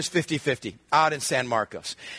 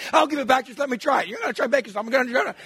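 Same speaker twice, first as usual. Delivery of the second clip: put-on higher, begging little-boy voice; pleading kid; 8 semitones higher, faster than usual. Nine-year-old begging sister for the salt, whiny. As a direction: beg to try it.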